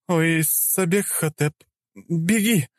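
высокий женский испуганный возглас; крикни ему бежать; воскликнула. Acted. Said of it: "воскликнула она". (высокий испуганный возглас)

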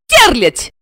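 spat out angrily. A narrator's reading. Wife spitting an insult at the blonde. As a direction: spit the word at her. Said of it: "зло выплюнула".

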